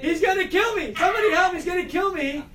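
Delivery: high-pitched, panicked yell; scared cry for help. Shown as a demonstration. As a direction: play a frightened victim calling for rescue. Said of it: "So, like, you're scared".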